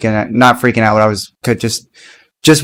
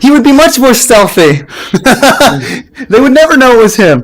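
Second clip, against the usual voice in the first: mock defence; 10 semitones higher than usual. Joking about Caleb, laughing.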